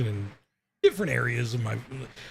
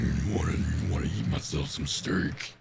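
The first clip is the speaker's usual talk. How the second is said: put-on southern accent; 9 semitones lower, 5 dB quieter than usual. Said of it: "it brings out my southern accent".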